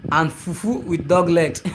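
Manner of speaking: slow, breaking into a laugh; amused. Real, not acted. Streamer reading a viewer's food comment, amused. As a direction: read it slowly, laugh at the end.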